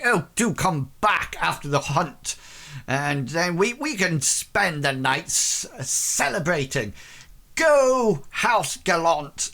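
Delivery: cheerful lord, a rising cheer at the end; rally the house with a happy cry; jovial Reginald. Acted. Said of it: "Reginald sort of said".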